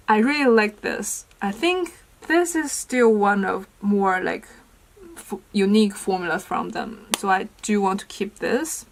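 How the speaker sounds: slightly breathless talking; out of breath. Real, not acted. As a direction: speak a little short of breath. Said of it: "I'm out of breath".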